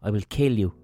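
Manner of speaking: mock-solemn poem reading with measured pauses; poem recital. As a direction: recite it line by line, leaving space between lines. Reads out a poem.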